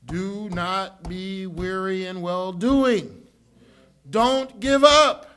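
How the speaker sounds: slow, drawn-out words, then a loud "Don't give up"; slow exhortation. Real, not acted. Pastor urges weary believers, slow then loud. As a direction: plead with them not to quit, slowing right down.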